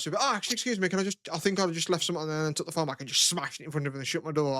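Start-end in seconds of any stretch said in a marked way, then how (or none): 0.2-2.5 higher-pitched, hurried polite request; breezy fake politeness, pitched up; mock-polite excuse. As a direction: put on an innocent "excuse me".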